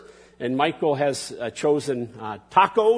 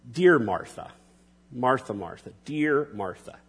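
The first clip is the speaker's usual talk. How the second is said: Jesus' tender tone; 4 semitones lower, 4 dB quieter than usual. Acted. Jesus answering worried Martha, tender and soft. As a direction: speak it like a loving friend calming her. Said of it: "notice Jesus' tone".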